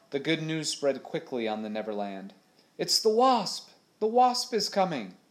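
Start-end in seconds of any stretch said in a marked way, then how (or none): 2.8-5.2 high, loud excited cry; excited shout. A narrator's reading. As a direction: call out the good news, thrilled. Sailors spot the ship, excited.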